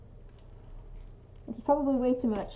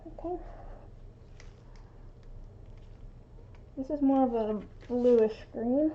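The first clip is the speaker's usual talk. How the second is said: through a respirator; 5 dB quieter than usual. Real, not acted. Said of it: "it's a lot quieter with the, the respirator on".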